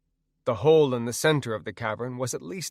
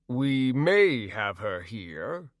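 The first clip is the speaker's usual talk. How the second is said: suspicious; much slower than usual. Acted. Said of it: "said the troll suspiciously".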